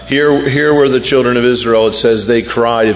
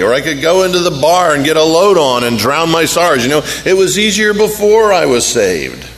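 whining complaint; 3 semitones higher than usual. Retold or imitated. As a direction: whine like a sulky new believer. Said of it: "they said".

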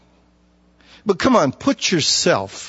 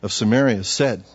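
scripture reading. Acted. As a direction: read the verse with weight. Preacher reads scripture aloud.

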